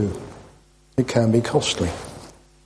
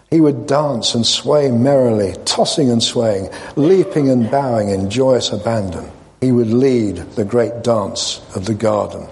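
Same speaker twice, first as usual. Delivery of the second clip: measured, expressive parable reading; story narration. A narrator's reading. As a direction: read it as a solemn storyteller, with pauses between phrases. Reads a parable aloud.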